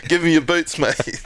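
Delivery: high, pushy mate demanding boots; mimicking a cheeky teammate grabbing boots; rude demand. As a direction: bark it like he's owed them. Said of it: "Not even asked nicely".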